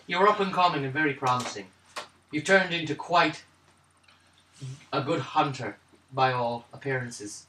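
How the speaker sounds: measured character voice, light Irish-like lilt; lightly voiced old acquaintance. Character tells Paydar they met long ago, lightly voiced. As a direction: speak as someone sizing up a former youngster.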